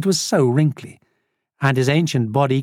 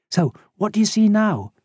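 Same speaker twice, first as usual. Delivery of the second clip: higher-pitched questioning voice; curious Lisa; 7 semitones higher than usual. A narrator's reading. Lisa testing the old man's clairvoyance, high and curious. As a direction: lift the voice into an eager question.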